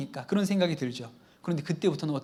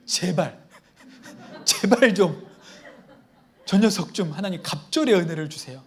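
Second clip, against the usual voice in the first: laughing plea. Retold or imitated. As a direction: beg half-laughing, stretching 제발 out. Acted prayer breaks into laughter.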